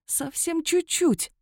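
high, drawn-out near-plea; urgent straining. A narrator's reading. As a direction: stretch it out, almost there. Straining toward the border while running. (с надеждой, на пределе сил)

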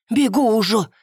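mildly winded reply; out of breath. A narrator's reading. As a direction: call back as if running. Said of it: "запыхалась".

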